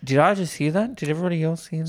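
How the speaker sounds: high-pitched, incredulous double-take; mock disbelief. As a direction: play up the shock for the audience. Mock shock at friend's admission.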